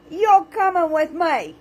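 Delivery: hammed-up threat; playful mock menace. Shown as a demonstration. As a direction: tease them like you're dragging them along.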